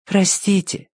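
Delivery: high, gentle apology; polite, high-pitched little voice. A narrator's reading. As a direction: address a small creature with great courtesy. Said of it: "тихо и очень вежливо обратилась к крысе".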